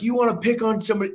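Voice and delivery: retold challenge. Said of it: "I'm like".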